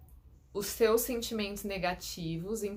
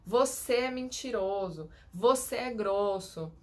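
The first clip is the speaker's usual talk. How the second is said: mock accusation; slower than usual. Shown as a demonstration. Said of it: "chega pra você e fala assim".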